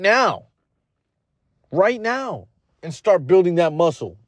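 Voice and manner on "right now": higher pitch on "Right now.", each word hit hard; emphatic repeat. Real, not acted. Host urging podcast listeners to act immediately, stressing "Right now.".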